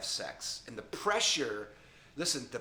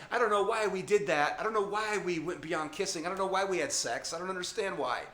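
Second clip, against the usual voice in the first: put-on higher, quicker whiny teen voice; confused teens; 5 semitones higher than usual. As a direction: play the baffled teenager with a higher pitch. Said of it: "some of you are like".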